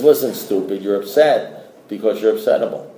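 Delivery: lightly voiced old-timer, low-pitched; imitating a sponsor's low, unexcited delivery; blunt sponsor. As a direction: deliver a deadpan insult as sage advice. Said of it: "that's how my sponsor's talking".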